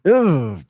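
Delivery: loud-edged, high groan of disgust; disgusted ugh. Real, not acted. Host hearing hated "farty", disgusted groan.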